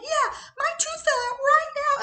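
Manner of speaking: put-on high little kid voice; squeaky small child. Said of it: "She's like".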